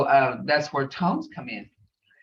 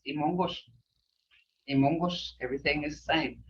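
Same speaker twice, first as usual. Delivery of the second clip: softer, gentle reassurance; quiet and caring, then quicker; hushed, sympathetic report; concerned tone; 3 semitones lower, 6 dB quieter, faster than usual. Shown as a demonstration. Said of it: "this is where this tone comes in".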